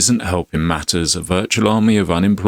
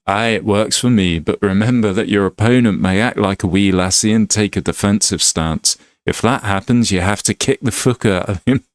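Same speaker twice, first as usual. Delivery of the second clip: put-on Glaswegian trainer; Scottish accent. Master advises on a defensive opponent, Scottish accent. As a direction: give advice as a Scottish brawler. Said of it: "Sorry about the Scottish accent".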